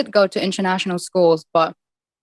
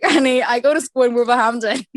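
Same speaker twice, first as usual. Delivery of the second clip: sassy retort; 3 semitones higher than usual. Retold or imitated. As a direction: play it sassy and knowing. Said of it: "I was like".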